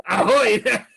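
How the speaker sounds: high, loud laughing hail; high elf call. Retold or imitated. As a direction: shout it like a posh high elf.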